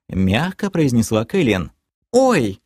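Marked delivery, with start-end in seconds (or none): 2.1-2.6 very high little squeak; squeaked "oops". A narrator's reading. Girlfriend at mention of her father, high squeak. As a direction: pipe up in alarm. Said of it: "пискнула Лео Седри".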